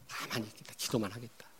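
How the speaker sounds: almost whispered resolve; hushed. Real, not acted. Preacher to congregation, softly vowing to wait. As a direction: drop to a near whisper.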